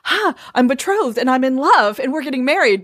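quick, lifted burst of happy news; imitating a giddy bride-to-be; giddy with excitement. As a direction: bubble over, lightly acted. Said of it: "like, giddy with excitement".

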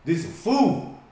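slow, rising, indignant mock complaint; complaining about the driver with no air conditioning, slow and indignant. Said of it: "I was like".

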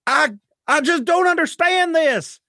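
put-on high, anxious young man's voice; frightened Clyde. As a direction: stammer it out, bewildered. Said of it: "He's like".

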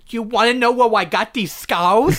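put-on slow lisping baby Joker voice; a hint of Joker as a toddler. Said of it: "Baby Joker".

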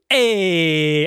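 drawn-out mock-Italian call; a hint of cartoon Italian; stereotype Italian accent. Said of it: "like the Italian guy".

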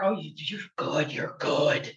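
low-voiced, near-whispered admiration; hushed praise. Real, not acted. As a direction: murmur it, impressed, almost under your breath. Impressed aside to the interviewer.

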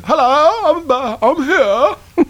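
high, far-off silly voice; high put-on voice. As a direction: squeak it out high as a newcomer. Same mock arrival voice, laughing.

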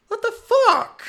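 high, loud incredulous cry; outraged disbelief. Real, not acted. Still fuming about the unfollow, high and outraged. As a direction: fling it out in disbelief.

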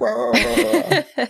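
high, garbled mock grumble; hammed-up wordless rant; mock upset ranting noise. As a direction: imitate indignant blustering. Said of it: "They get very upset".

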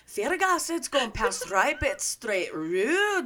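hammed-up fake Canadian, slow drawn-out ending; mock Canadian accent. Co-host riffing on someone's stink, exaggerated mock Canadian accent. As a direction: stretch the last word in bad Canadian.

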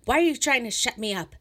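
shrill, loud, furious outburst, slowing toward the end; raging. Acted. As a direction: scream it at them so someone outside hears. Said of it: "Rage boiled up in her face".

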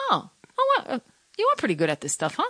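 hammed-up self-praise; mock self-impressed. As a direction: tease yourself like a proud fan. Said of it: "where I'm like".

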